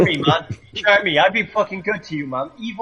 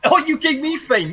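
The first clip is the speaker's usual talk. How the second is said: mocking echo; 7 semitones higher than usual. Real, not acted.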